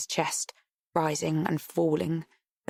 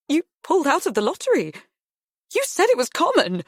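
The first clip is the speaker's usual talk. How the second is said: stuttering; 11 semitones higher, 5 dB louder, faster than usual. A narrator's reading. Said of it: "stutters Mum".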